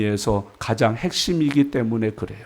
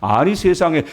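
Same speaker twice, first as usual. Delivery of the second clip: ordinary talk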